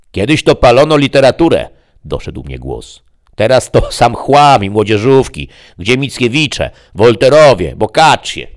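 high, loud, indignant demon voice; a pompous demon scoffing at modern books; fat grumbling demon. Acted.

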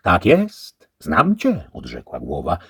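wysoko i głośno, dostojnie; głos głowy. A narrator's reading. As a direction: rozpoznaje pytającego. The head answers. (głowa rozpoznaje szlachcica)

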